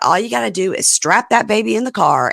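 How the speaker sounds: mock the grandmother's breezy offer, a touch high; ironic grandmother quote. Host retells the grandmother offering help, mildly ironic. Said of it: "grandmother says, ironically".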